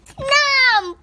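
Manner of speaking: loud, high shouted snap; dramatic snap. Acted. Child reading the fox's bite aloud, shouted snap. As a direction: bite the word off like jaws closing. Fox snaps up gingerbread man.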